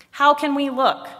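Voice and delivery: high, loud storybook protest; protesting question. A narrator's reading. Arms answer Head without having eyes, protesting question. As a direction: ask it as an obvious objection.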